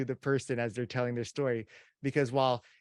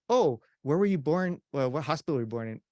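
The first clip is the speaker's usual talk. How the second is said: interrupting question. Pretend. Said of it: "interrupt me and go".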